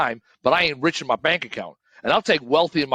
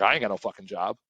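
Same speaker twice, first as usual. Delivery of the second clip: with some stank; 4 semitones lower, 3 dB quieter than usual. Retold or imitated. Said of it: "I was like".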